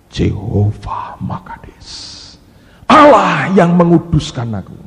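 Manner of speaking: slow, ends in a crying swell; tearful worship. Retold or imitated. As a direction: cry out to God, voice breaking. Worshipper cries out to God. (seruan penyembahan sambil menangis)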